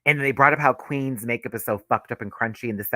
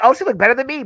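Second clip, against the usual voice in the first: high, loud mock indignation; loud, high-pitched acted quote; mock catty reaction; 11 semitones higher, 9 dB louder, much faster than usual. Voicing a queen's catty reaction.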